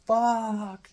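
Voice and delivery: loud, high shouted curse; venting anger with one shouted word; yelled curse. Retold or imitated. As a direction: belt it out like screaming in the street. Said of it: "just yell".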